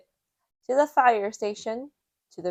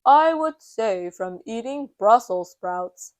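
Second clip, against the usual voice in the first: lightly voiced hero, a bit louder; Super Potato; 5 dB louder than usual. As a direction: answer like a confident superhero. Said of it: "Super Potato replies".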